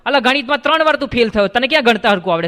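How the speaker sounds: quick scoffing tease; fast mocking taunt. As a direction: rattle off the jibe at a classmate. Fourth friend mocks the counter.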